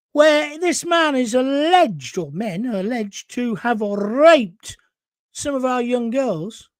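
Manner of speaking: breathless, slow and heavy; winded, pushing words out; out of breath. Real, not acted. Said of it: "I'm getting out of breath for this".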